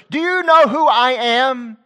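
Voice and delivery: high, loud, slow indignant demand; crying aloud. Retold or imitated. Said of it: "cry aloud".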